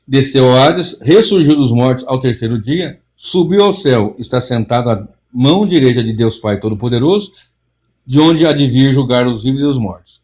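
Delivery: solemn, measured liturgical reading; creed recitation. Acted. Preacher reading the creed aloud to listeners, solemn. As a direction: read it out like a congregation's confession.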